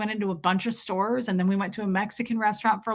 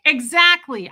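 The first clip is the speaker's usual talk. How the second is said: laughing agreement; 6 semitones higher, 8 dB louder than usual. Retold or imitated. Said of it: "I burst out laughing".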